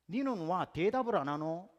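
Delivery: slow, firm Gyeongsang dialect question; Gyeongsang mother. Retold or imitated. Mother asking her new daughter-in-law, slow Gyeongsang dialect. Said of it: "저희 어머니가".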